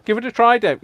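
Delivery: "Give it a try, Dave" high and loud, teasing; inner voice egging on. Retold or imitated. Her own brain daring her to try the accent, high and loud. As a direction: goad yourself like a cheeky inner voice. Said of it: "My brain's going".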